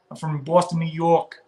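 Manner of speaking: lightly put-on Boston accent; a hint of a mock Boston accent; fake East Coast accent. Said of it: "do a fake accent for you".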